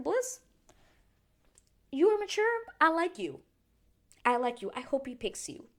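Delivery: high, loud gushing praise; gushing to Bliss. Retold or imitated. Telling Bliss she's mature, gushing high and loud. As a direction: cheer her on, high and loud. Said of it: "And I was like".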